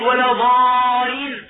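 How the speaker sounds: ولا ضالين said slowly, the lam skipped and ض left single; shadda dropped. Shown as a demonstration. Teacher showing a common recitation mistake, dropped doubling. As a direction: drop the doubling in ضالين, deliberately wrong. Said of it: "يشدد في الأولى ويترك التشديد في الثانية".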